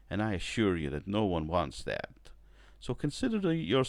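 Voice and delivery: a lightly put-on smug executive; poor executive impression. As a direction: hand down the order like a network suit. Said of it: "that was a poor accent I put on, man, a poor impression".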